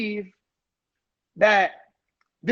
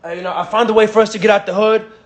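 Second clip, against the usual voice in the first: hyped-up call to a friend, a bit louder; exaggerated hype pitch; 3 dB louder than usual. Shown as a demonstration. Pitching a friend on a way out of the hood, hyped. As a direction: sell it like you found the way out. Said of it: "Make an exaggeration".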